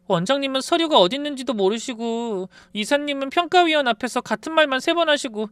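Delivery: high, fretful nurse voice; nurse's voice. Retold or imitated. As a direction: voice the nurse complaining in alarm. Nurse voiced reporting chaos.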